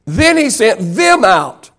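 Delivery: "them" punched as the answer; stress on THEM. Real, not acted. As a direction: repeat it with weight on "them". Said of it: "He said who?".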